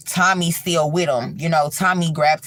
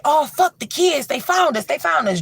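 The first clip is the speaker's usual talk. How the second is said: high scared outburst; they've found us, panic; frightened realization; 11 semitones higher than usual. Retold or imitated. Friends hearing the screams again.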